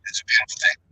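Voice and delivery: glitchy robotic mic, metallic and broken. Real, not acted. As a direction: voice garbled by a bad connection. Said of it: "you sound robotic".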